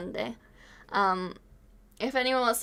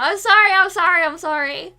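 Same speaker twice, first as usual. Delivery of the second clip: emotional apology; 6 semitones higher, 10 dB louder than usual. Real, not acted. Streamer apologizing to chat.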